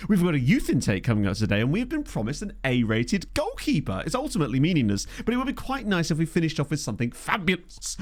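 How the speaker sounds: talking through hiccups; hiccuping between words. Real, not acted. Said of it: "I'm still hiccuping".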